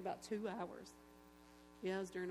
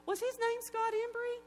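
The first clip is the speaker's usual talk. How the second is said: much higher, louder, slow, stunned; astonished question; 14 semitones higher, 8 dB louder than usual. Retold or imitated. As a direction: ask as if it can't be true. Stranger jumps up, astonished.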